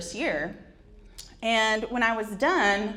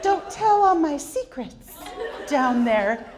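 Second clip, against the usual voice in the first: mock scolding; 6 semitones higher, 3 dB louder, slower than usual. Scolding her own crotch.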